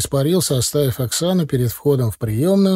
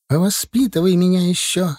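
barked; 6 semitones higher than usual. A narrator's reading. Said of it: "рявкнула та на него".

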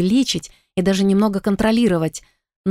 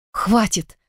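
a mildly raised "Хватит!"; 3 semitones higher than usual. Acted. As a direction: cut them off firmly. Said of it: "повысила я голос".

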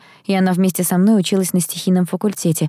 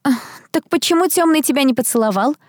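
pestering; 7 semitones higher than usual. A narrator's reading. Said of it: "пристала ко мне Дейрил".

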